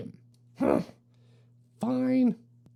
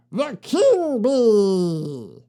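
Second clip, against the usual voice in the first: grand reveal; 5 dB louder, much slower than usual. Acted. Dramatic self-reveal as King Bee.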